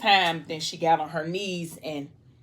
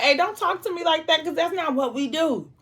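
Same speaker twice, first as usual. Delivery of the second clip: wounded wife snapping back at her husband, voice pitched way up; hurt protest; 10 semitones higher than usual. Retold or imitated. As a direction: push back hard because the words hurt. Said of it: "that hurt her like".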